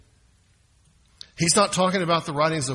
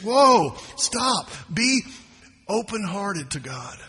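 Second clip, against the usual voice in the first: urgent call to stop; 2 semitones higher, slower than usual. Acted. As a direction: halt them short, then soften. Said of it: "But James says".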